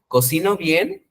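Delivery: acted musing question; pondering question. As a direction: wonder it to yourself, pitch climbing. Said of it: "se ponen a pensar y dicen".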